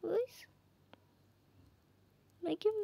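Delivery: softly whispered hold on. Real, not acted. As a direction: whisper it under your breath. Whispered aside while playing.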